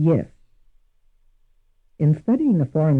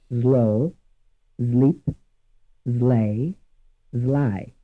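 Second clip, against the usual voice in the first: Italian accent, S voiced to Z before L; 2 semitones lower, much slower than usual. Shown as a demonstration. Teacher demoing an Italian learner's English words, Italian accent. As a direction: zlo zlip zlej zlaj with an Italian Z for S. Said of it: "likely to imitate these four English words as follows".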